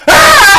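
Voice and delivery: put-on high, loud terrified kid scream; a child shrieking at a moving knight. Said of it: "the kid turns around and he goes".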